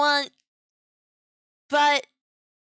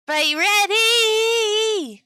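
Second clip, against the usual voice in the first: high, long-drawn hype call; big, stretched rallying cry; 6 semitones higher, much slower than usual. Real, not acted. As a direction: draw out READY high to rouse a crowd. Hyping up chat before reveal.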